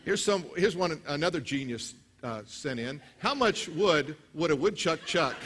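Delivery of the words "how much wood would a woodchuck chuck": reading it out through laughter; can barely get the words out for laughing; slow, amused, chuckling through the question. Real, not acted.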